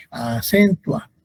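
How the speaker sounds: "acentua" in even, separated syllables; a-cen-tua, nothing punched; unstressed syllables. Shown as a demonstration. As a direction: keep "acentua" free of a strong beat. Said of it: "No tiene un sonido fuerte".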